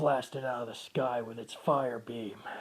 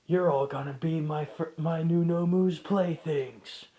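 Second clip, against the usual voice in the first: gloating villain; 2 semitones higher, 4 dB louder than usual. Acted. Shigaraki gloating at heroes.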